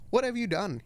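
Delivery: crying. Acted. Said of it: "he started to cry wisely".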